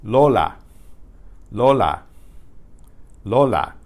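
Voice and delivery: Lola with a pure, unglided O; Spanish pure O. Shown as a demonstration. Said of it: "As in Lola".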